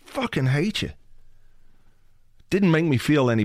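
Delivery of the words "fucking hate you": high-pitched hammed-up curse at the potatoes; mock angry cursing. Host cursing his sprouted potatoes in the cupboard, hammed-up high-pitched scolding. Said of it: "was like".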